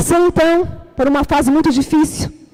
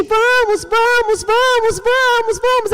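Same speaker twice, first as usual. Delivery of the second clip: insistent sister; 8 semitones higher, slower than usual. Retold or imitated. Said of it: "E ela insiste".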